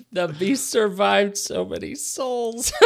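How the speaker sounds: words squeezed out through laughter; cracking up mid-sentence; laughing. Real, not acted.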